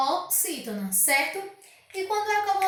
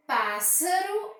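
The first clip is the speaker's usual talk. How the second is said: "Pássaro" esticado, começando forte no PÁS; ênfase em PÁS; 2 semitones higher, much slower than usual. Shown as a demonstration. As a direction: alongue e reforce o PÁS de "Pássaro". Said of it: "O pá eu pronuncio com mais força". (PÁÁS-saro, devagar)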